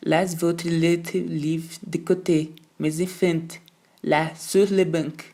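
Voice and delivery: slow, deliberate French governess, on edge; a distraught French teacher spelling out each order slowly; slow, unsettled French governess voice; agitated French governess. Acted. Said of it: "Mademoiselle estava completamente transtornada".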